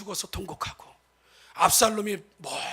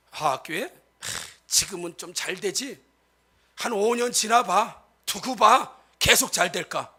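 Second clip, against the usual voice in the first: sneering prediction; slower than usual. Retold or imitated. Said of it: "이런 얘기".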